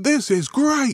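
high excited outburst; loud exclamation. Retold or imitated. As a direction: blurt it out loudly. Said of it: "I was talking quite loudly".

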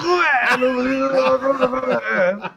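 high, slow strained singing voice; strained singer imitation. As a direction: squeeze it out like a straining rock singer. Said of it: "Aí quando ele vai cantar".

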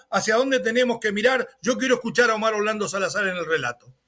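ordinary delivery

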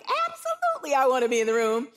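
thrilled acceptance, retold; eager yes. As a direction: jump at the offer. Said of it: "And I'm like".

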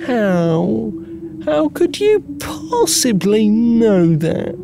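a sleepy partner who can't believe it; exasperated partner. Acted.

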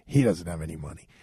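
low, deadpan guard voice; dry correction officer. Retold or imitated. Officer cutting off the inmate, low and deadpan. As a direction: shut the inmate down flatly. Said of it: "the correction officer's like".

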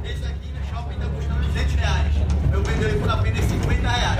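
loud, high bus-vendor sales pitch; hard sell ad. Retold or imitated. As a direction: pitch it like a street hawker on a bus. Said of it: "Olha a manha dele vendendo capinha no ônibus".

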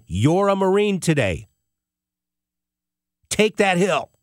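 echoing the Marines urging runners up the final hill; retold Marine yell. Marines on the hill urging runners up, mock yell. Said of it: "yelling for you to take that hill".

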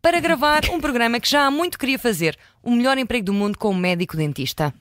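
speaking with a swollen cheek; after wisdom teeth. Real, not acted. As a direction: talk just after a tooth was pulled. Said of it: "sim, nota-se um, um bocadinho".

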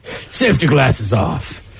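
slow, quiet Bill Nye impression; imitating Bill Nye. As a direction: drag it out like an angry scientist. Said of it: "That is fantastic".

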